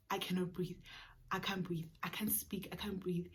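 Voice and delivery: soft, fading gasps of I can't breathe, almost a whisper; breathless plea. Retold or imitated. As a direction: barely get the words out, as if choking. Choking, telling the nurse.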